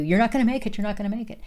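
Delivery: half-voiced taunt of the enemy, not a full scream; the enemy behind you taunting, mildly yelled; mock enemy scream. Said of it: "the enemy behind you screaming at you".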